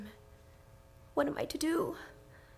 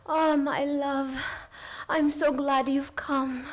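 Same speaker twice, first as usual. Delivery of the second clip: slow, louder, lingering seductive call; eerie seductive; 4 dB louder, slower than usual. Acted. Changed Lucy calls Arthur close, slow and seductive. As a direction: lure him in, drawing out each word. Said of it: "strange change came over her".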